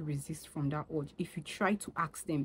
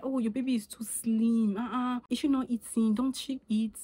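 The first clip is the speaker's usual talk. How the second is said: higher, louder fussing busybody; mock a meddler fretting over a slim baby, pitched up; hammed-up busybody, higher and louder; nosy onlooker; 6 semitones higher, 4 dB louder than usual. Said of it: "or be like".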